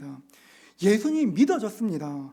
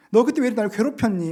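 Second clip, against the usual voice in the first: loud scolding question; loud, accusing "왜 나를 괴롭혔니"; mock rebuke; 2 semitones higher, 7 dB louder than usual. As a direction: bark it like an accusing master. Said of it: "말씀하지 않으셨습니다".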